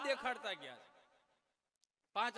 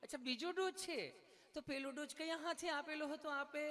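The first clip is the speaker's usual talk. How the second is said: higher, sweet mock nurse voice; 5 semitones higher than usual. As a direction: play the polite nurse, pitched up. Nurse questions Gabho. (ઊંચા મીઠા અવાજે nurse)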